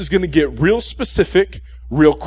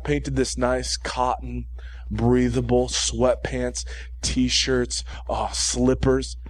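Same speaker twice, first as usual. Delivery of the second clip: softer relaxed contrast; 4 semitones lower, 6 dB quieter, slower than usual. Real, not acted. Contrasting comfy clothes after sweater.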